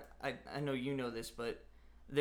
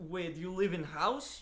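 put-on Russian accent, higher; 5 semitones higher than usual. Asked to do a Russian accent and question Rhonda: Russian accent. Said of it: "let's go back to the Russian accent".

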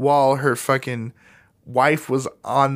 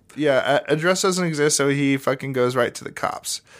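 usual speaking voice

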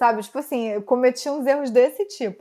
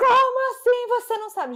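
very high-pitched, shrill shouted yell; 11 semitones higher than usual. Speaker retells a woman yelling at her for not knowing where she was; imitating a woman yelling. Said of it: "mas ela gritava".

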